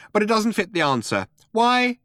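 high little mouse voice; interrupting mouse. A narrator's reading.

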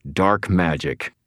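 slow growl through clenched teeth. Acted. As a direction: grind it out, jaw clenched. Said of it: "I growled through clenched teeth".

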